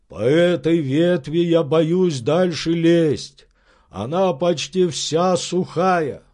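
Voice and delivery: slow, wary servant's voice; hesitate, afraid to go on; frightened servant. Acted. Servant telling his master the branch is dead, wary.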